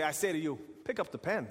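put-on formal old-fashioned proclamation, lightly done; solemn biblical command. Shown as a demonstration. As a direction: say it like a lofty scripture line. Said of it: "Who talks like that, honestly?".

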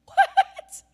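high, loud, incredulous laughing what; laughing disbelief. Retold or imitated. Her shocked reaction retold.

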